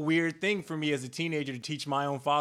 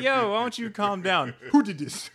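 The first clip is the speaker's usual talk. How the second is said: imitated African parent, raised voice; African accent; 4 semitones higher, 5 dB louder than usual. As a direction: demand answers in a mock African accent. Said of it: "real strong on that tease".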